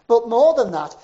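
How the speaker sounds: loud, pressing refrain; preaching shout. Retold or imitated. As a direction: hammer it out to the crowd.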